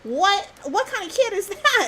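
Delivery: high, indignant questioning; retold incredulity. Storyteller replaying her retort about a kid's prank, incredulous.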